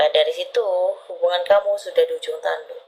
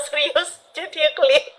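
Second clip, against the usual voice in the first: high, giggly words between laughs; laughing during a serious reading, high and giggly; 9 semitones higher than usual. Real, not acted. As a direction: giggle while trying to stay serious.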